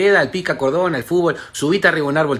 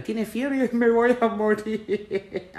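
whiny sick man; 3 semitones higher, much slower than usual. Retold or imitated. Mocking a sick man whining.

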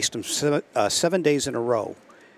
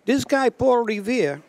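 excited outburst; 12 semitones higher, 5 dB louder than usual. Retold or imitated. Retold defendant's indignant punchline.

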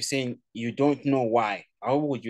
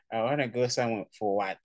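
rude. Pretend. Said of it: "rude as well".

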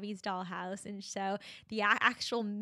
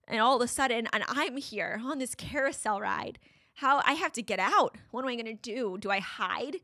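panicked retelling; 2 semitones higher, 4 dB louder than usual. Retold or imitated. Reliving panic at the mall.

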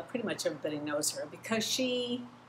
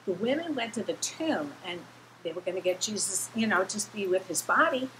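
amazed disbelief; 3 semitones higher than usual. Retold or imitated. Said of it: "they're like".

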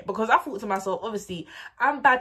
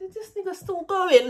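much higher and louder; disbelief; 12 semitones higher, 6 dB louder than usual. Retold or imitated. Date keeps talking, incredulous high exclaim.

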